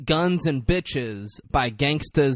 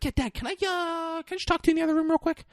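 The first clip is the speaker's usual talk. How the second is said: high, rushed, fidgety son; nervous quick ask; faster than usual. Retold or imitated. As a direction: blurt it out fast like a high addict. Jake asking dad privately.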